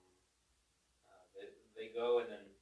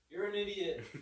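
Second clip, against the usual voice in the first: higher and louder, mock taunt; echo talking back; 8 semitones higher, 4 dB louder than usual. Echo taunting the Grinch, higher and louder. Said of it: "the Echo".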